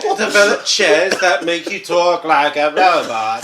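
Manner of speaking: slow, laughing joke. Real, not acted. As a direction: say it while cracking up.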